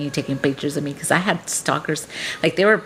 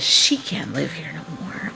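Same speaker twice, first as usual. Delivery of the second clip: whispered "She can't live here no more"; whispered threat; 4 dB quieter than usual. Retold or imitated. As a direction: breathe the words, half a spell. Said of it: "I was mad".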